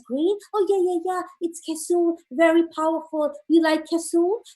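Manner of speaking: put-on high, eager manicurist with accent; high nail salon lady. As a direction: upsell the magic herb brightly. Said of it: "Lady says".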